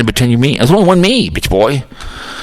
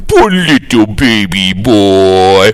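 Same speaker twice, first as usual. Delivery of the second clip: mock baby talk; 3 semitones lower, much slower than usual. Mocking the host as baby.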